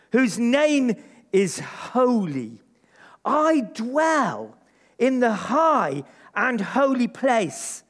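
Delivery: slow, grave reading; solemn scripture reading. Acted. Preacher reading Isaiah to the church, solemn slow reading. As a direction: let each holy word settle.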